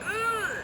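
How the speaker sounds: high, soft squeal held in; stifled sob. Retold or imitated. Traveller hiding her crying from passersby, stifled sob. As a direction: imitate crying while trying to keep it down. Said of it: "keep it down".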